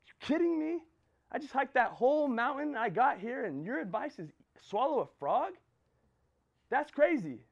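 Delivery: high, loud disbelief at the guru's advice; incredulous outburst. Retold or imitated. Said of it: "The guy's like".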